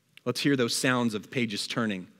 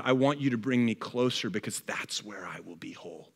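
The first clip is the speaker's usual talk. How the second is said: heartfelt lament; 3 semitones lower than usual. Retold or imitated. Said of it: "What it's saying is".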